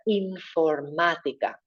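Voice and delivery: informática slowly with the middle á hit hard, infor-MA-tica; big stressed a. Shown as a demonstration. Teacher repeating informática with an angry á. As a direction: make the á of informática big and strong. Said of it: "Big angry A in the center".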